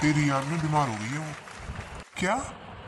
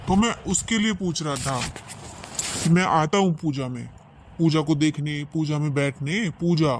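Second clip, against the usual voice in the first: higher, over-insistent explaining; flustered excuse; 4 semitones higher than usual. Acted. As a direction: insist nervously, voice pitched up. Hurried excuse to suspicious wife. (घबराहट में ज़ोर देकर सफ़ाई)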